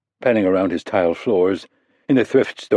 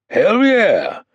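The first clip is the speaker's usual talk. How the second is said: eager yes; 13 semitones higher, 4 dB louder than usual. Acted. Coleman eager to return.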